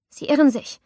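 put-on frightened girl faking composure; trembling attempt at calm. A narrator's reading. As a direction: try to sound calm and fail. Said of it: "Ich versuchte gelassen zu klingen, doch meine Stimme zitterte".

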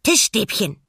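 hohe, laute Pinguinfigur; nachsprechender Pinguin. A narrator's reading. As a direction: begeistert als kleines Tier nachplappern. (fröhlich nachplappernde Pinguinstimme)

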